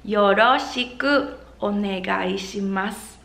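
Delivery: "Yoroshiku" with the r as a light tap between r, d and l; "Yoroshiku" said with a Japanese tapped r, close to "yodoshiku"; soft D-like R. Shown as a demonstration. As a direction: tap the r in "Yoroshiku" so it sounds almost like a d. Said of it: "Notice how I pronounce the R sound".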